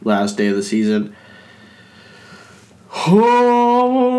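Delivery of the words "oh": stifling a sneeze; fighting off a sneeze; holding back a sneeze. Real, not acted. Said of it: "I'm trying not to sneeze".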